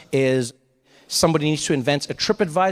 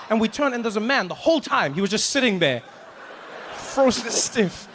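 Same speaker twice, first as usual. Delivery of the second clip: ordinary talk, nothing marked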